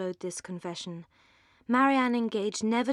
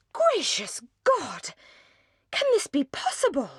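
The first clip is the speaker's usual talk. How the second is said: indignant outcry; 8 semitones higher, 4 dB louder than usual. A narrator's reading. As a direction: cry out in disbelieving fury. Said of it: "in an ecstasy of indignation, cried".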